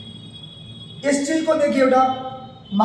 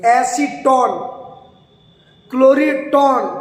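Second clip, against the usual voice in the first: slow, ringing emphasis on final टोन; stress on टोन; much slower than usual. Shown as a demonstration. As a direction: draw out the ending टोन in each word. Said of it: "ध्वनि उत्पन्न हो रही होगी".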